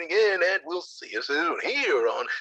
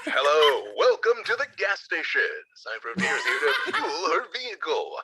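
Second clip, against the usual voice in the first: hype man ad. Acted. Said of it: "be my hype man".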